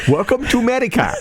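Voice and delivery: put-on fast made-up Asian accent; switching accents clumsily. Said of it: "It's like an Asian accent".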